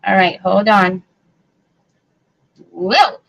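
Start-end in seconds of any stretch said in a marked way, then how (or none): none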